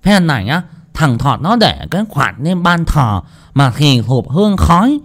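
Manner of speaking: angry ranting curse. Acted. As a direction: vent fury at the cheating landlord. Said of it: "tức chí mà chửi đồng".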